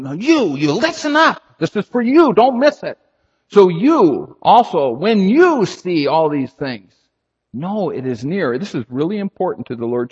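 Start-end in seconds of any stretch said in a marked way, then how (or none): 0.0-8.6 high, loud and urgent; coat-collar urgency, loud and high; emphatic grab. Retold or imitated. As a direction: shake them awake with it. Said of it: "grabbing you by the coat collars and saying".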